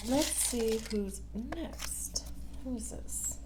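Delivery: soft unvoiced whisper. Real, not acted. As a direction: whisper it to yourself. Whispering to herself while shuffling.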